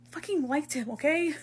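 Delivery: high, softened, hurt admission; close to tears. Acted. Hurt friend admitting a crush, close to tears. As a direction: confess it quietly, fighting tears. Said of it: "No tears, no tears".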